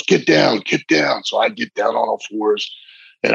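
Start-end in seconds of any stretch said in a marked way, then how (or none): 0.0-1.2 mild mock yell. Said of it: "Ole yells".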